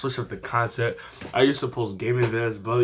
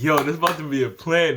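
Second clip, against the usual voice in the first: hyped inner voice; 3 semitones higher, faster than usual. Retold or imitated. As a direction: pump yourself up.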